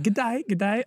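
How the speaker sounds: put-on tentative, softish Australian accent; half-hearted Australian greeting. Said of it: "hear you do Australian".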